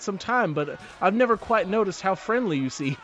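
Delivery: slightly high flirty barmaid; a hint of a charmed barmaid. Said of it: "Sweetie goes".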